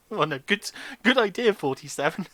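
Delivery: loud, high "good idea" burst; exaggerated praise. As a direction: overblown mock enthusiasm. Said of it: "Hence my reaction".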